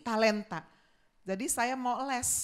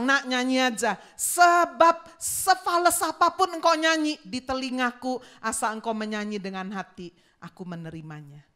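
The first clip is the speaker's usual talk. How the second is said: gentle God voice; 7 dB louder than usual. Retold or imitated. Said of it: "Tuhan bilang".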